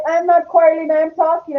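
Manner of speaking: lightly acted protest of innocence; retold protest. Retold protest to husband's quarrel accusation.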